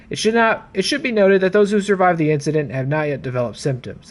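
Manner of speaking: read-aloud log, measured and formal; reading a report. Acted. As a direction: narrate it like an officer's written record. Reads Jill's report aloud.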